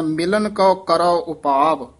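ਮਿਲਨ ਕਉ ਕਰੋ ਉਪਾਵ falling to a rest on ਉਪਾਵ; pause after ਉਪਾਵ. Shown as a demonstration. Teacher marks the rest after ਉਪਾਵ. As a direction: stop cleanly after ਉਪਾਵ. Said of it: "ਇੱਥੇ ਵਿਸਰਾਮ".

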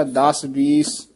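"ਦਸ" and "ਵੀਸ" said slowly with soft, light consonants; soft, light sounds. Shown as a demonstration. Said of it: "ਹੋਲਾ ਹੀ, ਪੋਲਾ ਹੀ ਬੋਲਣਾ".

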